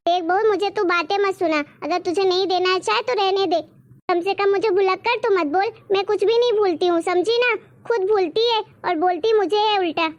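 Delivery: put-on offended old woman appealing to her grandson; scolding old mother-in-law. (डाँटती हुई बूढ़ी सास)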